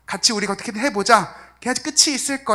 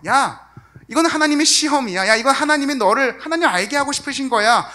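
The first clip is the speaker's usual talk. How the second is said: loud, high preachy scolding of a suffering friend; scolding rebuke; 6 semitones higher, 6 dB louder than usual. Retold or imitated. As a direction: lecture him harshly about God's test.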